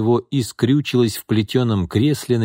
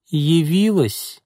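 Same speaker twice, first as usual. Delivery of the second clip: slow, sullen, higher voice for the aunt; a grim, drawn-out greeting; gloomy aunt; 8 semitones higher, much slower than usual. A narrator's reading. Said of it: "хмуро осведомилась она". (хмуро, медленно)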